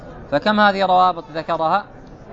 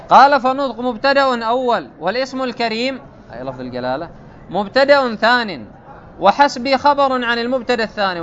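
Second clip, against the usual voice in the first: raised, measured reading of the source text; formal text reading; 5 semitones higher than usual. Acted. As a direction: read the quoted commentary out formally. Reads the commentary text.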